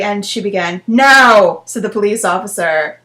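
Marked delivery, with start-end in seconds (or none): 0.9-1.6 loud, serious "Now"; stern. Acted. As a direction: snap "Now" like a stern officer. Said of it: "Now is in italics, so you know that it is serious business".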